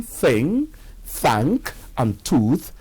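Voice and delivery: "thing, thank, and tooth" read slowly as a demo; Nigerian-style th. Shown as a demonstration. Teacher demos the words before contrasting them, slow and careful. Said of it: "a Nigerian who's learning spoken English pronouncing".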